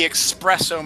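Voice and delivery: espresso said as "ex-PRESS-oh"; mock the error, espresso with an X, "eks-PRESS-oh"; mispronunciation. Host quoting someone at the coffee machine, mispronounced. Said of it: "No, it's espresso".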